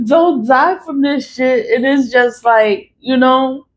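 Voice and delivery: laughing while talking. Real, not acted. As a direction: let the giggles spill into the words. Laughing through the line.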